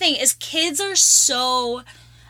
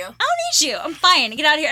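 mock defiance; 3 semitones higher than usual. Mock defiant rescue refusal.

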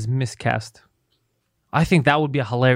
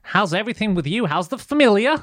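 put-on Canadian accent; 2 semitones higher than usual. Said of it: "how many people have that, that accent though?".

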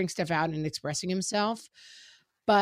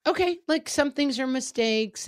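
gentle and forgiving; 6 semitones higher than usual. Retold or imitated. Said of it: "have a heart about it".

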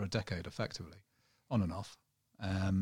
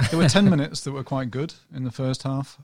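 louder, higher, laughing restart; jokey higher, louder retelling with a laugh; voice raised for fun; 4 semitones higher, 10 dB louder than usual. Shown as a demonstration. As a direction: lift the voice up to shake off the monotone. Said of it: "raise my voice an octave".

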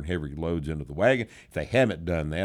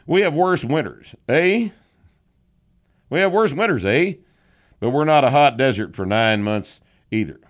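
hammed-up voice, higher and louder, leaning on "eh?"; mock Canadian boast; 6 semitones higher, 7 dB louder than usual. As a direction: tease like a proud Canadian, punching each "eh?". Reading a listener's mock letter.

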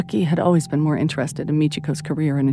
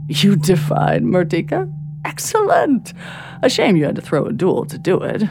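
delighted. Acted. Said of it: "broken suddenly by peals of laughter".

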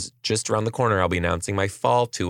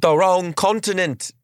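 teasing; 9 semitones higher than usual. Real, not acted. Teasing mom's wrong accent.

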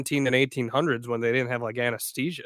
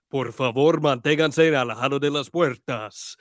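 lightly deepened, sultry Spanish announcer voice; a hint of a sexy monorail announcer; mock sexy Spanish-speaking announcer; deep sexy Spanish announcer; 4 dB louder than usual. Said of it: "in a very deep Hispanic, kind of sexy voice".

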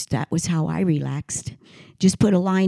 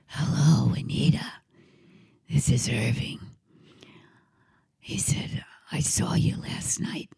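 put-on old man's whisper. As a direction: whisper it like a frail old composer. Old composer on the phone.

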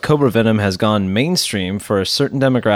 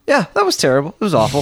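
mock horrified report; 4 semitones higher, much faster than usual. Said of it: "They're always like".

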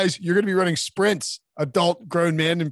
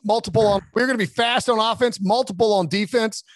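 a higher, hyped press-conference coach; generic coach voice; 5 semitones higher, faster than usual. Pretend. Playing a Jaguars head coach at his first press conference, mildly hyped. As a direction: rattle off the clichés like a new coach at the podium. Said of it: "give me three or four phrases".

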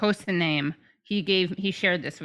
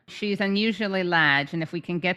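put-on Australian accent. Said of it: "That's a good Aussie accent".

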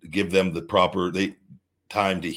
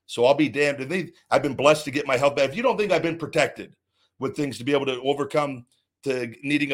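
heated, raised and higher, building to a fierce peak; real fury, spitting defiance at his enemies; angry rant; 5 semitones higher than usual. Real, not acted. Ranting on his show against the company that wronged him, angry.

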